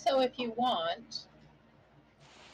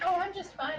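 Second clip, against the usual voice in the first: pixie voice; 10 semitones higher than usual. Acted. Pixie character replies.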